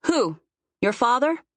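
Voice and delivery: rising, disbelieving query; sceptical challenge. A narrator's reading. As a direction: question it doubtfully, pitch lifting at the end. Sceptical challenge to Remy's plan.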